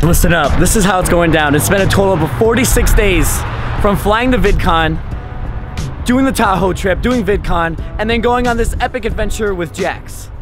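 loud, punchy vlog announcement; hyped loud intro. Real, not acted. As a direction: pump up the intro, loud and driven.

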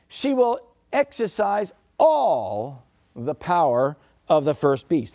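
all leaned on, slowed, preaching weight; slow down and press the word all; stress on all. Real, not acted. Preacher stressing all to the congregation. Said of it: "I emphasize the word all".

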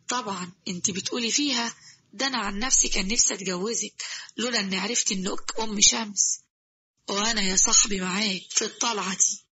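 a cheeky jinn teasing; genie voice. Acted.

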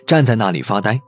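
usual speaking voice

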